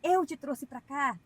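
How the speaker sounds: mock pulpit prophecy, drawn out and loud; preacher proclaiming. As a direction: thunder it out like a pastor at the pulpit.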